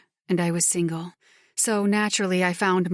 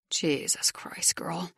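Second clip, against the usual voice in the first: low growl; 6 dB quieter, slower than usual. Acted. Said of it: "Justice growls".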